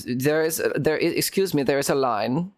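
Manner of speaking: halting attempt at a German accent; lightly done German accent. Shown as a demonstration. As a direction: try out a German accent, hesitantly. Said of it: "my German accent is".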